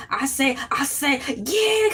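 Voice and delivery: lightly mimicked cartoon rooster stammer; Foghorn Leghorn. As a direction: imitate a blustering Southern rooster. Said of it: "Foghorn Leghorn be like".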